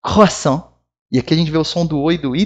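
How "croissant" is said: "Croissant" with a throaty French R; "Croissant" ending on a nasal vowel; French pronunciation. Shown as a demonstration. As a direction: model "Croissant", R at the back, "oi" as "wa". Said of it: "Vamos de novo, pronunciando".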